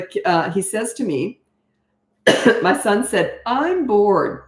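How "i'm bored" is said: put-on whiny, sulky kid's complaint; snotty tone. Mother imitates her five-year-old son's snotty complaint, whiny. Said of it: "in that snotty tone".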